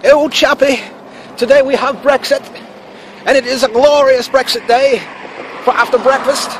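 lightly hammed-up British accent. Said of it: "British people don't really talk like that".

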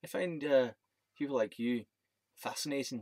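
imitating a Scottish speaker; lightly put-on Scottish accent. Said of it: "trying to do my Scottish accent".

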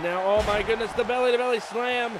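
hyped ringside shout at the climax; excited shout. Acted. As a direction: roar it as the big slam lands. Big move in the match.

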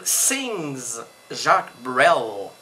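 drawn-out put-on British accent. Shown as a demonstration. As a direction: say it slowly in a mock British accent. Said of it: "c'est mon accent, euh, british". (accent britannique feint, étiré)

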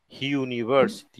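university with a consonant sound before the u; university opened with a J-like glide; consonant onset. Shown as a demonstration. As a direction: start university on a consonant glide, like "hyu-niversity". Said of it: "como si fuera una, una consonante".

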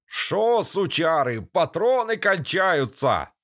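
high mocking bandit voice, dragged out; jeering thug. A narrator's reading. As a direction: taunt them from the woods. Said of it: "глумливый голос". (глумливый голос бандита)

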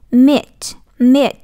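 "meet" with a long, held ee; long vowel. Shown as a demonstration. Teacher showing the long Y sound, drawn-out "meet". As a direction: stretch the ee in "meet". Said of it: "cái này người ta gọi là Y dài".

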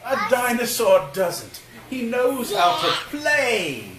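big, high, loud dramatic answer; emphatic storybook no. Acted. Dad reading to toddlers, loud high dramatic no.

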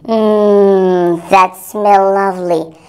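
low, slow appreciative hum into the words; savoring a scent. Acted. Crafter smelling a little bottle of lemon oil, savoring.

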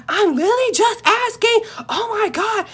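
high, loud exasperated mock yell; yelling back. Narrator yells back in relative's face, exasperated. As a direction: shout it with pitch shooting up. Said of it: "I'm yelling back in her face".

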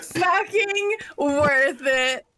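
slow, drawn-out shout; triumphant shout. Real, not acted. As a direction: belt each word out slowly. Triumphant after being killed.

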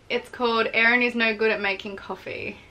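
normal talking voice

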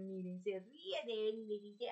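ordinary talk

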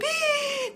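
high, soft scolding gasp; drawn-out high "hii" of disapproval; shocked gasp. Acted. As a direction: gasp as if scandalized. Mock-shocked scolding of a child.

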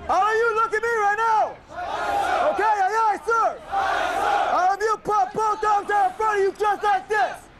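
shouted drill commands; military officer. Real, not acted. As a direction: bark orders like a drill sergeant. Drill instructor addressing recruits.

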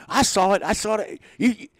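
high retold accusing; accusing manager, half-hearted; mock accusation. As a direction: insist like a caught-out manager. Bobby voiced, accusing.

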